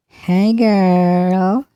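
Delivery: playful sassy hello through the voice changer; mock girly greeting. Testing the female preset on viewers, playful sassy greeting.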